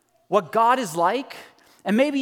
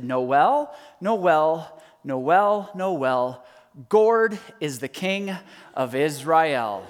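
mock emphatic toddler; 5 semitones lower, much slower than usual. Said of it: "very emphatically, she said".

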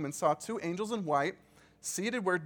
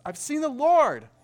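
excited announcement; 10 semitones higher, 10 dB louder than usual. Acted. Mary announces the risen Lord.

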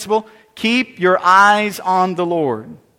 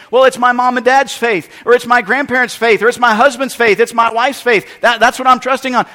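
louder, justifying himself; mock excuse-maker; defensive believer; 3 semitones higher, 5 dB louder than usual. Voices someone relying on others' faith.

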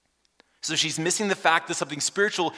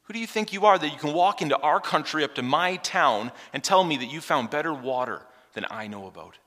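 indignant; 2 semitones higher, 3 dB louder than usual. Pretend. Woman challenges the stranger.

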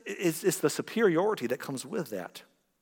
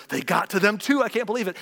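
mock outraged believer; 5 semitones higher, 4 dB louder than usual. Mocking conspiracy believer.

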